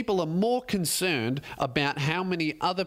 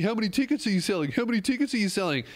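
nagging fans; 4 semitones higher, much faster than usual. Retold or imitated. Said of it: "All people have been asking about".

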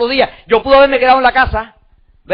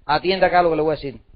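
calm, assured retelling, dropping lower and quieter; quiet, low self-assurance; 6 semitones lower, 5 dB quieter than usual. Retold or imitated. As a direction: say it unruffled, letting the voice sink. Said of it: "y yo tranquilo".

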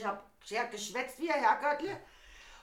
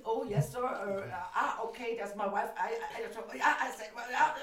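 put-on German-accented English. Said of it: "Peter hat sich dann entschuldigt".

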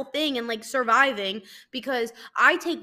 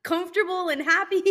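high, loud, over-the-top delight; mock gushing fan; 7 semitones higher, 5 dB louder than usual. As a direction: gush like a thrilled listener, hammed up. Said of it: "I'm sure you're like".

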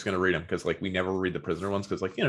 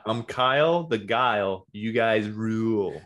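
put-on Philly accent; much slower than usual. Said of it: "read it in a Philly accent".

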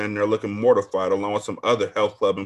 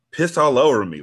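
louder, higher incredulous echo; incredulous repeat; 5 semitones higher, 6 dB louder than usual. Real, not acted. Reader reacting to the story, incredulous. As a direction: repeat it in disbelief. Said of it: "like, damn".

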